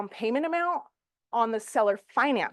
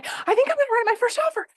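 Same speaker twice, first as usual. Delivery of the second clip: much higher, fast and eager imitation of the niece; gushing, quick niece voice, pitched way up; excited niece; 13 semitones higher, 3 dB louder, faster than usual. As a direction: mimic an excited young agent announcing her first offer. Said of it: "She's all excited and she's all hyped up".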